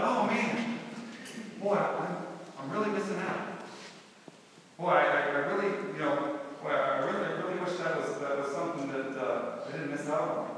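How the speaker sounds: mock longing, dripping with irony; sarcastic. Preacher mocking the partygoers, sarcastic. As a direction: pretend to envy the drunks, tongue in cheek. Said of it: "he said sarcastically".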